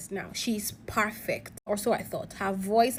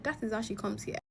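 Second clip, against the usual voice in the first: much softer, confidential aside; retold whisper; 9 dB quieter than usual. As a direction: imitate a hushed tip-off. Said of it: "he whispered to me and said".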